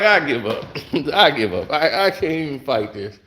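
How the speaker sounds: low, deflated "I give up"; defeated sigh. Retold or imitated. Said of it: "I'm, I'm like".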